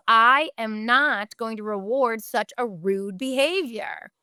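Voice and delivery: slow, emphatic mock indignation; indignant parent. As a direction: act a parent refusing on principle. Acting out an objecting parent.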